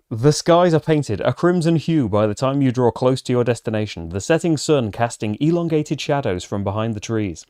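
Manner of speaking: fantasy adventure narration; story narration. A narrator's reading. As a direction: read it like the opening of a fantasy tale. Reads the game's story text.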